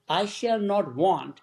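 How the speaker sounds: "I shall not want" spelled out slowly, each word weighed; slowly dwelt on. Shown as a demonstration. Realizing the line's meaning, said slowly. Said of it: "means, like, I won't need anything".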